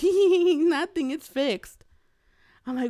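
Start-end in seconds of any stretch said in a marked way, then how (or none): 0.0-1.8 husband teasing wife, giggling "nothing, it's fixed"; imitating his laugh. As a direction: mimic the husband's sneaky giggle. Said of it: "and he's laughing".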